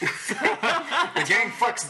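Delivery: title card voice. Pretend. Parodying Always Sunny title card.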